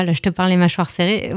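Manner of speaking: talking through clenched teeth; wired jaw. Shown as a demonstration. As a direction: speak with the jaw locked shut, fast. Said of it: "Ça s'entend".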